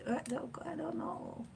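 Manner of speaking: high-pitched goofy squeak; silly high voice. Pretend. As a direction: squeak it out like a cartoon. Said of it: "why we're talking like that".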